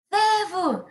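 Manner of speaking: high shouted name; calling out. Acted. The ant calls her deer friend for help, high shout. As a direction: call your friend from far away. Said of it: "a formiga gritou".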